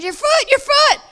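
high, insistent "Your foot, your foot."; urgent high voice. Retold or imitated. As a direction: press it, high and pointing. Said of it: "She goes".

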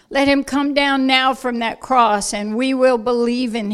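loud scornful jeer; mocking shout. Religious leaders mocking Yeshua.

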